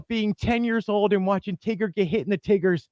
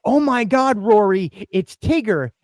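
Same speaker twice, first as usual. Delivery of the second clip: excited squeal; 5 semitones higher, 4 dB louder than usual. Retold or imitated. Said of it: "I went to go".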